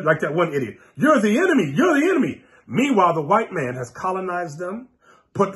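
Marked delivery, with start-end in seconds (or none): 1.0-1.7 a mild imitation of the angry Igbo man; accusing mock quote. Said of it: "They'll hear us teach and go". 1.7-2.4 pushed higher, the accusation escalating; mock angry man building up his charge; rising accusation. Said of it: "They'll hear us teach and go".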